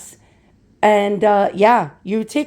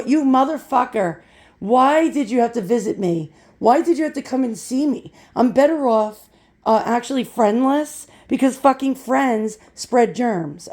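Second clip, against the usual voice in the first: ranting; 2 semitones higher than usual. Real, not acted. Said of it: "I'm getting out of the rant".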